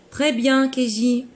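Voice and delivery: high, cheerful teacher praise; bright praise. Real, not acted. (félicitations enjouées)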